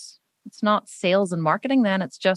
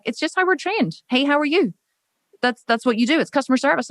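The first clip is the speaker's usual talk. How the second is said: matter-of-fact friend; 6 semitones higher than usual. Retold or imitated. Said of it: "She was like".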